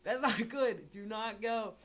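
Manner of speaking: frantic don't-go-in plea; alarmed warning. Retold or imitated. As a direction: urgently warn yourself away from the house. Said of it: "I was like".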